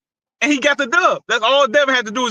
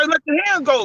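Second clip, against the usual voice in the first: put-on "Let your hands go" quoted higher as the old man's instruction; quoting the coach; 4 semitones higher than usual. Old coach instructing his fighter in the corner, quoted higher. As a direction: relay the coach's corner order. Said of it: "If he say".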